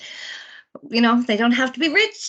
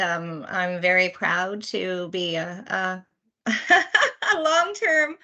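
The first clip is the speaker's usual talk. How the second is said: nervous, stumbling with a laugh; flustered nervous hesitation; stage fright; 2 semitones lower, slower than usual. Real, not acted. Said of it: "I'm a little nervous".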